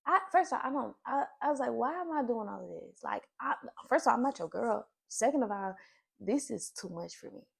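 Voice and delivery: fed up and letting him know; sassy refusal, first of all; indignant. Retold or imitated.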